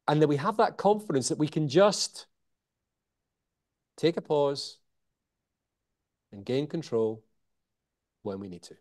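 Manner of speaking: long pauses before "take a pause" and "and gain control"; dramatic pauses. Shown as a demonstration. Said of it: "see how that draws you in".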